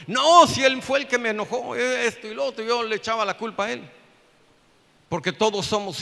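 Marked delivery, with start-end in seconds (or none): 0.1-2.6 loud, higher-pitched protest; indignant retort. Retold or imitated. Husband blaming the other man to his wife, indignant. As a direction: burst out defending yourself with a big loud no.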